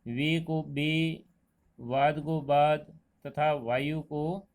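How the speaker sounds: वे and बे, वाद and बाद said slowly to contrast v with b; teacher contrasting v and b sounds slowly; slow v versus b demo. Shown as a demonstration. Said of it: "इस दोष के कारण".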